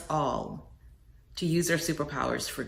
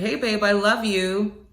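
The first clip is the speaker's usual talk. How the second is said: called out; 5 semitones higher, 3 dB louder than usual. Retold or imitated. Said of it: "I just shouted out".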